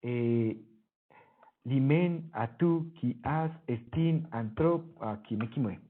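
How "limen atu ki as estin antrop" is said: syllable by syllable, beat on the long ones; scanning the verse. Shown as a demonstration. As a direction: tap out the iambic rhythm word by word. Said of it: "esto que estoy representando así". (escandir el verso sílaba por sílaba)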